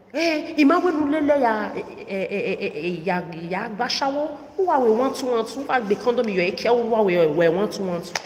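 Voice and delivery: a hint of the mother nagging in Benin pidgin; mocking mother. Mother voiced in Benin language.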